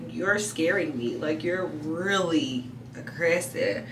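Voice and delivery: slow, softened pleading; gentle, calm plea. Retold or imitated. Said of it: "lowered my tone and almost was whispering".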